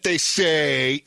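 doubtful drawn-out they say; incredulous. Retold or imitated. Son imitating his dad doubting the forecast, incredulous. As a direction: scoff at the forecast as he quotes it. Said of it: "he always says it incredulously".

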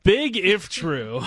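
slow, drawn-out shout up high; announcer shout. Shown as a demonstration. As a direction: boom out the segment title slowly. Host announces the segment title.

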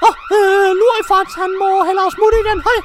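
squeaky high, loud wizard with giggles; a cackling little wizard bursting in; Louis Fox voice. Acted. Wizard Louis Fox crashing the break-in, squeaky high giggling.

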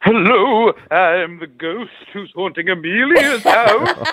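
prim ghost voice with a titter; a polite, proper ghost stifling a laugh. Pretend. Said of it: "prim and proper ghost".

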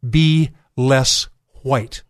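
very slow, deliberate slogan; slow slogan read. Retold or imitated. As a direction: read each word out slowly. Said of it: "the new slogan is".

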